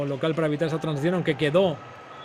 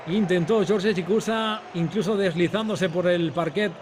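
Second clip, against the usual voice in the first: excited commentary; 3 semitones higher than usual. Real, not acted. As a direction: push up with the counterattack. Turnover and fast break.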